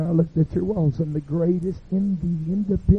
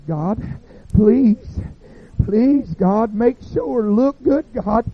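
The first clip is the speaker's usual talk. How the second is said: desperate pleading; 7 semitones higher, 3 dB louder, much slower than usual. Acted. Dougie begs God at judgment.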